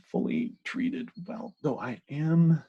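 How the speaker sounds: talking through burps; words pushed out on a burp. Real, not acted. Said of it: "I'm just talking through burps".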